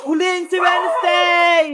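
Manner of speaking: slow, stretched-out group call; rallying cry. Acted. Children rushing to catch Wednesday, rallying cry. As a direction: call the charge, stretching each word.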